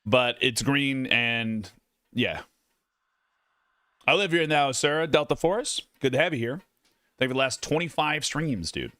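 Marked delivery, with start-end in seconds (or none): 4.1-8.9 chewing steak. Real, not acted. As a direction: mouth full while talking. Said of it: "I'm talking with my mouth full".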